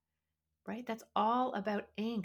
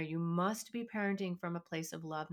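usual speaking voice

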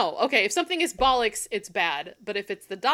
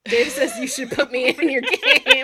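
laughing; 4 semitones higher, 8 dB louder than usual. Real, not acted. Joking boast.

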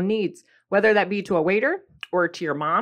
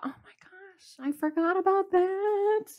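surprised; 11 semitones higher, 5 dB quieter than usual. Retold or imitated. Retelling her own surprised thought.

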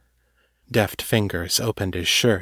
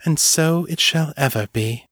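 higher, solemn and possessive; triumphant muse; 5 semitones higher than usual. Acted. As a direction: pronounce it like a vow. Muse seals his fate.

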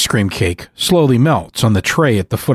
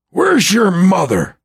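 snaps; 8 semitones higher than usual. Acted. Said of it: "Gramps snaps".

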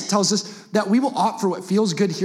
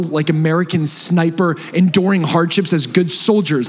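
louder, building rally call; rallying cry; 4 dB louder than usual. Real, not acted. Preacher rallying the church to fight, loud. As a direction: fire up the congregation like troops. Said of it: "speak from the heart".

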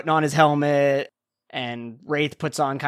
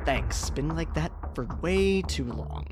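hoarse relief; 7 dB quieter than usual. Acted. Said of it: "unclenches her jaw and goes".

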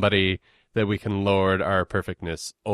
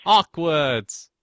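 higher, louder put-on New Zealand accent; mock New Zealand accent; 7 semitones higher, 5 dB louder than usual. Shown as a demonstration. Co-host echoing the Auckland joke, mock New Zealand accent. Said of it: "we did a pitch perfect New Zealand accent".

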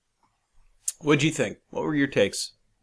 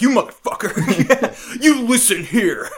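higher, louder mock threat through laughter; mock tough guy; 7 semitones higher, 4 dB louder than usual. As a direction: square up jokingly, half laughing. Mock confrontation with the Russian.

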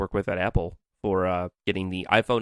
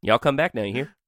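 Southern; 4 semitones higher than usual. Acted. Mock Southern farewell among Southern phrases.

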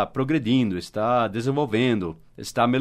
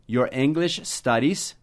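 slow model question; slower than usual. Shown as a demonstration. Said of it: "modelling the question".

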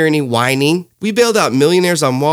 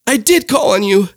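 high, slow teacher voice; drawn-out, patronizing teacher; mock prim teacher; teacher reply; 9 semitones higher than usual. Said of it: "And she said".

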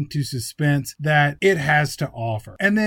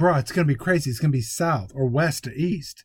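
cocksure, breezy bro voice; bro impression. Movie hero defending his plan, breezy bro impression. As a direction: brush off doubts as an overconfident bro.

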